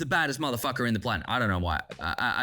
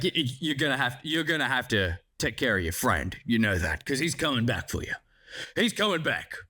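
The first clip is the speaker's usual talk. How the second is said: marshal's voice; 5 semitones lower than usual. Retold or imitated. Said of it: "I don't know why he speaks like that".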